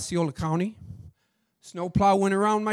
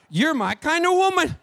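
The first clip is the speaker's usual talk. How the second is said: laughing, then a higher, louder exclamation; laughing delight; 9 semitones higher, 7 dB louder than usual. Real, not acted. Driver delighted by the rich customer, laughing loudly. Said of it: "laughs then exclaims".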